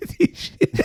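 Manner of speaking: whispered "T shit", the r dropped the Australian way; Australian "T shit" for T-shirt; mock Australian accent. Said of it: "It's t-shirt with an Australian accent".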